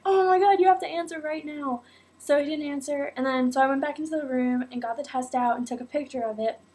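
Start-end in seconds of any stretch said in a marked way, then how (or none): 0.1-1.8 urging him to pick up at once; frantic plea. Retold or imitated. To boyfriend who won't answer, mock frantic. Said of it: "And I was like".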